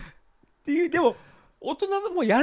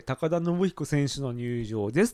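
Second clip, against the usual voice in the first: ring announcer; 3 semitones lower, slower than usual. Retold or imitated. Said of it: "って言われて".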